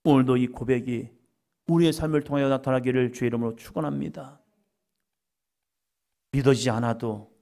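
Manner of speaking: normal talking voice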